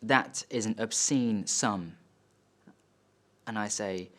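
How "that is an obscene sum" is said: slow, weighted disapproval; disapproving dad. Acted. Dad to son on hearing the rescue's cost, slow disapproval. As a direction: space the words out in judgement. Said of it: "and he goes".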